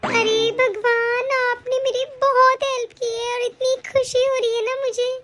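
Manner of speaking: slow, drawn-out, heartfelt thanks; tearful gratitude. Acted. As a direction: pray your thanks, overcome with joy. Thanking God in overjoyed relief.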